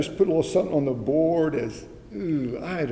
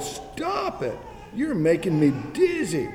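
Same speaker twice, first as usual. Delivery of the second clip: yelled protest; 3 semitones higher, 4 dB louder, slower than usual. Acted. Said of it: "I yelled".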